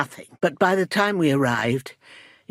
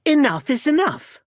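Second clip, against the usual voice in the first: higher, firm outburst; fed up; 8 semitones higher, 4 dB louder than usual. Acted. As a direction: put your foot down, pitch raised. Putting a stop to a quarrel.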